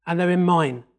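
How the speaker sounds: normal talking voice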